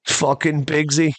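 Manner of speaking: proud. Retold or imitated. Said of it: "he said it with, like, pride".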